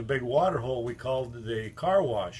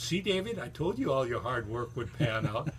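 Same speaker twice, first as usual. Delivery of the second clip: proud wife. Retold or imitated. Wife proudly reassures David.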